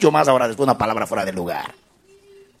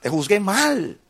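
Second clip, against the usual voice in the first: tender apology; 7 semitones higher than usual. Retold or imitated. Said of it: "lo abrazaba y decía".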